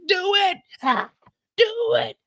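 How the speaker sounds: high, wailing half-sobbed screams; desperate yelling. Retold or imitated. Man on the ground begging the gunman, crying high-pitched yell. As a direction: beg him to pull the trigger, crying out. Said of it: "all we hearing is".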